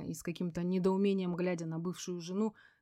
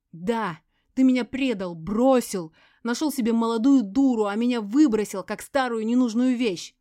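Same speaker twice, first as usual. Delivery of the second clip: loud, higher furious screaming; 4 semitones higher, 11 dB louder than usual. A narrator's reading. Betrayed ex-wife screams at Sergey, loud and furious. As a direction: scream every accusation at him. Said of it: "Она кричала отвратительным голосом".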